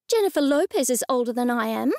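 snapping. Acted. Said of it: "I snapped".

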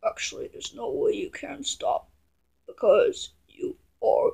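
soft, half-whispered telling-off; hushed scolding. Acted. Telling someone they cannot stop, hushed. Deflated scolding after a sigh.

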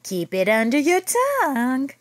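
hissed eerie nurse order; creepy nurse whisper. Acted. Spooky school nurse ordering a kid, whispered.

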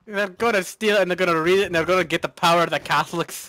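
quick put-on Irish accent; hurried stage-Irish brogue; mock Irish. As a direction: rattle it off in fake Irish. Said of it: "speaking Irish".

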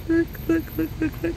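high, eager calls of look; calling family over to see the new car, excited. Real, not acted.

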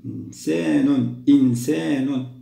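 teacher sounding out a word; slow model word. Shown as a demonstration. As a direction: read إنسان slowly for dictation. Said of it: "أحسنتم، نكتب الهمزة على الألف".

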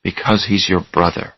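doctor quietly telling Charlie the truth. Acted. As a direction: say it softly, breaking news. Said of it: "Doctor Bruner spoke quietly".

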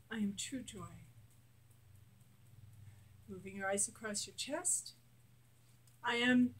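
guided affirmations. Shown as a demonstration. Coach leading a tapping exercise, steady affirmations. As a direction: lead the listener through each line.

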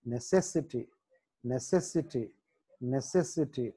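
నెసెసిటీ with the stress on "cess"; soft నెసెసిటీ, second syllable stressed. Shown as a demonstration. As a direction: lean softly on "cess" in నెసెసిటీ. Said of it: "సి దగ్గర stress mark".

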